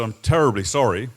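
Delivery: lightly put-on upper-class British accent. Retelling his apology to an Iraqi commander, British upper-class accent. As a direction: mildly imitate a British upper-class officer. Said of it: "in a typical British upper-class accent".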